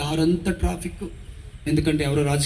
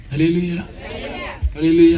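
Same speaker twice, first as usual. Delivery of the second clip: a full-voiced hallelujah shout. Real, not acted. Preacher calling on congregation.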